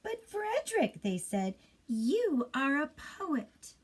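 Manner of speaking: amazed mouse voices. Acted. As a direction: gasp it out in admiration. Mice amazed at Frederick.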